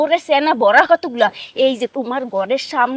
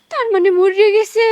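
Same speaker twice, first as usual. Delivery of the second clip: shocked cry; 5 semitones higher, 4 dB louder than usual. Acted. Wife finds man apparently dead.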